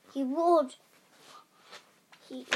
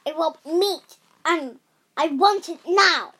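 loud, booming, punching NOW; demanding giant; 4 semitones higher, 10 dB louder than usual. Acted. Giant demanding meat from his wife. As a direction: bang out the demand.

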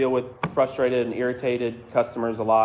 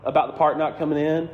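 higher, apologetic with a laugh; smooth it over with a chuckle; laughing apology; 4 semitones higher than usual. Retold or imitated. Apologizing to defensive clerk.

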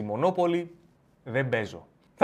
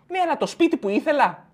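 high whining protest; whiny friend; 11 semitones higher than usual. Acted. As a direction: whine about the lost house. Friend complaining back.

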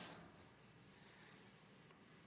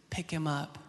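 Holy Spirit speaking; 3 semitones lower, 3 dB quieter than usual. Retold or imitated. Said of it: "the Holy Spirit speaks to me".

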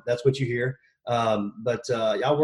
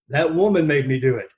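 plain; 2 semitones higher, 6 dB louder than usual. Retold or imitated. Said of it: "there's the one we could use".

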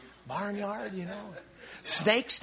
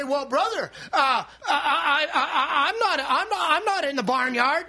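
mock objector; 3 semitones higher than usual. Preacher mimicking a listener, mild flustered protest. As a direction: sputter out the denial. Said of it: "You say".

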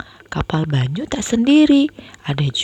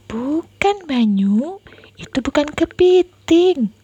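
big sister voice; 8 semitones higher than usual. Acted. Sister correcting brother.

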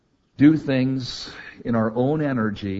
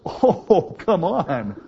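"Oh, come on" much higher and louder, thrilled; delighted disbelief; 6 semitones higher, 4 dB louder, much slower than usual. Retold or imitated. Abraham laughing with joy at the promise, high excited cry. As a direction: squeal "Oh, come on" in happy amazement. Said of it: "Abraham's laugh was".

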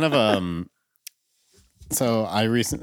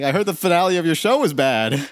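higher, teasing boss voice; imitated boss; 5 semitones higher than usual. Boss teasing him about the finale, higher imitated voice. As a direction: needle him in a raised voice. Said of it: "he's like".

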